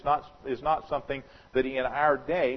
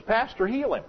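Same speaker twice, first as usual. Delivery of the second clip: pleading woman; 8 semitones higher than usual. Retold or imitated.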